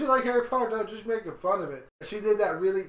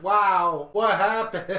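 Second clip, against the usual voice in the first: put-on amazed boys; 8 dB louder, much slower than usual. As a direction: belt out a stunned wow. Boys react to grown-up Hermione.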